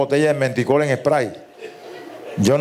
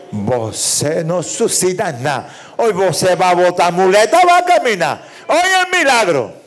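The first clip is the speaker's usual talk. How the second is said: preacher's promise; 3 semitones higher than usual. Acted. Pastor promete el milagro. (pastor que sube hasta gritar el milagro)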